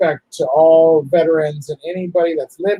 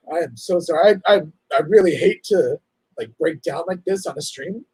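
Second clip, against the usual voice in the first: words breaking through tears; real, choked-up apology; tearful and broken; crying while talking. Real, not acted. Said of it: "I can't even talk right now".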